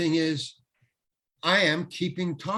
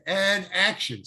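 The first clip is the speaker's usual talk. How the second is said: higher-pitched cue call; calling action; 5 semitones higher, 3 dB louder, slower than usual. Retold or imitated. Starting the second take, lightly acted call of action. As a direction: imitate a film set cue, raised a little.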